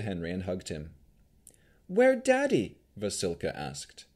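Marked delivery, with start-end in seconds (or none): 1.9-2.8 very high, loud golem question; childlike golem. A narrator's reading. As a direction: ask for Daddy like a simple creature. Childlike golem asks for father.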